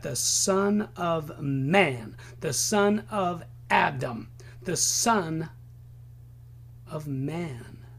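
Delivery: Man drawn out and dropped low; stress on Man. Shown as a demonstration. Preacher stressing Man in the Son of Man. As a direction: lean hard on Man, slowly. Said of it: "He emphasized man".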